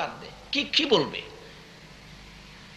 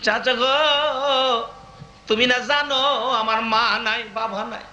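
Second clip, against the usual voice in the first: mild lamenting plea; tearful pleading; slower than usual. Retold or imitated. Prophet pleading as an orphan with his uncle, mildly tearful. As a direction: draw out the call, then plead plaintively. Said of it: "দুইটা হাত বাড়াইয়া কান্দে".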